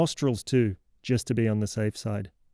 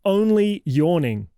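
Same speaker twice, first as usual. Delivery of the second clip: slow, higher, louder mocking repeat of only yawning; incredulous echo; 6 semitones higher, 4 dB louder, slower than usual. Host mocks the kid's excuse, slow incredulous echo. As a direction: throw the kid's excuse back in disbelief. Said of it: "You are only yawning".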